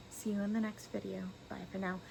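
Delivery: talking while chewing gum; chewing gum through the outro. Real, not acted. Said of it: "if you saw my gum".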